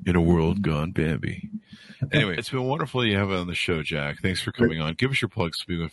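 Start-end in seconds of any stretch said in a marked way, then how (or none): 0.1-1.5 movie trailer announcer voice; dropping announcer voice. Shown as a demonstration. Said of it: "uh, radio voice".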